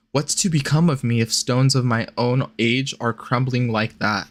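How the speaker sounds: even-paced literary read; reading aloud. A narrator's reading. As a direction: read the old letter out evenly. Reads a letter aloud.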